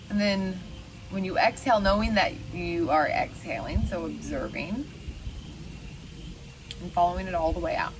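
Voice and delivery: unhurried meditation guide, long pauses; lightly meditative, leaving room to breathe; guided meditation. Acted. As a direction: guide listeners gently through the breath, pausing between phrases.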